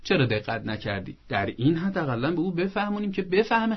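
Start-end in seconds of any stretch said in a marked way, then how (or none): 0.0-1.2 softer, tender mild reproach; patient parent over a broken thing; gentle parent. Shown as a demonstration. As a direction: sound let down but loving. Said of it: "حالا یه چیزی رو شکونده".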